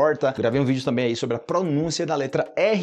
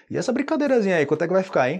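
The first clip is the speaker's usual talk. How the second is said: much higher, teasing question; curious asker; 6 semitones higher, faster than usual. Retold or imitated. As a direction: ask the price with mock suspicion. Asking the price of a party. (pergunta curiosa em tom mais agudo)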